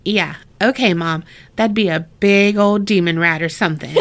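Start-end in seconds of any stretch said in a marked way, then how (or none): 1.6-3.9 laughing while speaking; joking through giggles. Real, not acted. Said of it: "That's funny".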